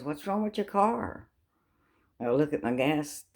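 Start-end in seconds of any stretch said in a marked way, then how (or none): 0.0-1.3 Grace asking. Retold or imitated. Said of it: "and Grace goes".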